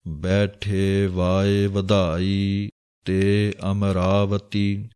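slow, drawn-out chanting of the verse; scripture recitation. Acted. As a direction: intone each word slowly like a reading of Gurbani. (ਹੌਲੀ ਹੌਲੀ ਬਾਣੀ ਦਾ ਪਾਠ)

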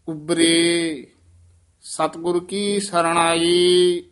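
ਉਬਰੇ set apart with a falling tone and a pause; teacher shows the student the pause after ਉਬਰੇ. Shown as a demonstration. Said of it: "ਉਬਰੇ ਪਦ ਤੇ ਵਿਸਰਾਮ ਹੈ".

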